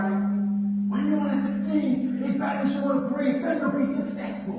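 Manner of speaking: high, very loud motivational bellow; Eric Thomas. Retold or imitated. Motivational speaker on stage to a crowd, impassioned shouting. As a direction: imitate a fired-up American preacher-style speaker, words stretched. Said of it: "this crazy motivational speaker from America".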